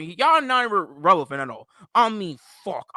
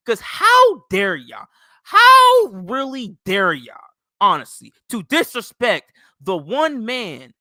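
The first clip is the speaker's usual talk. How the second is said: louder, slow, indignant build; outraged; 7 dB louder, slower than usual. Real, not acted. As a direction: hammer each word of how dare y'all. Furious rant at Patriots fans.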